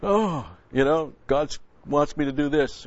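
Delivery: lightly mocking pious voice; mock pious believer. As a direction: imitate a dreamy churchgoer claiming God's leading. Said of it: "They got a feeling".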